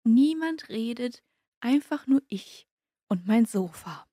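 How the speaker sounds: slow, spaced-out radio lead-in; scene-setting radio intro. Acted. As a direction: linger on each phrase, pausing between them. Scene-setting lead-in to loneliness report.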